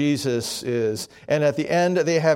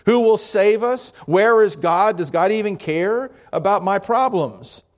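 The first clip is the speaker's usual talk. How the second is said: higher, louder desperate plea; crying out; 5 semitones higher, 3 dB louder than usual. Retold or imitated. A worried believer crying out to God, higher and louder. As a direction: call out to the sky in despair. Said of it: "It's too easy to cry out".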